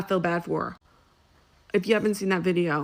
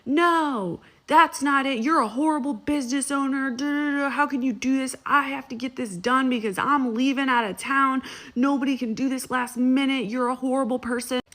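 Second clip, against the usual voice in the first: higher, indignant customer whining at the waxer; mock indignant client; 5 semitones higher than usual. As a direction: play the outraged client, pitched up. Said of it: "the girl still continues to be like".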